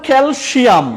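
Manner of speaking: "ক্যালসিয়াম" with a sh sound, kel-shiam; mispronounced SH. Shown as a demonstration. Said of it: "এই সিয়ামটা উচ্চারণটা কিন্তু ভুল".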